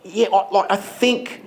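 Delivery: waffle through the diagnosis unsure; unsure doctor. Retold or imitated. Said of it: "you sit down and he says".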